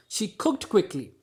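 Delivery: slow, emphatic "cooked quickly"; stress on cooked quickly. Shown as a demonstration. Teacher isolating the action of cooking, "cooked quickly" stressed. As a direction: punch "cooked" and keep "quickly" tied to it. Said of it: "focusing on the action of cooking".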